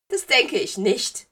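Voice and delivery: high, slow, loud refusal; trotziges Geistermädchen. A narrator's reading. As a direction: refuse slowly as an offended ghost girl. Ghost girl refuses Severus. (trotzig, hoch und gedehnt)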